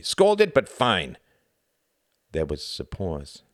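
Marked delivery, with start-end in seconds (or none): 0.0-1.2 curt reply, loud and high then settling; short. A narrator's reading. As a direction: grumble shortly, louder on the first word. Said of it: "said Quentin shortly".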